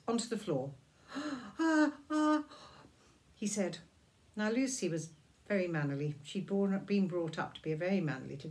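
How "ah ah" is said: high, louder startled "Ah, ah"; startled gasps. Acted. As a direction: gasp in shock. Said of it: "He was so surprised".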